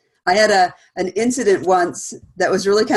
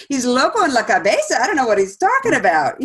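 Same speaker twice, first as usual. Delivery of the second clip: higher, half-laughing dismissal of a silly insult; amused brush-off; 4 semitones higher than usual. Retold or imitated. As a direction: wave it off as nonsense, chuckling.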